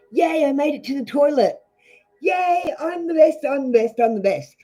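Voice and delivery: high-pitched cheering, yay; inner cheerleader. Acted. Reader models self-praise for a small win, inner cheerleader. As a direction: celebrate a tiny win like your own cheerleader. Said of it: "an inner cheerleader in your head".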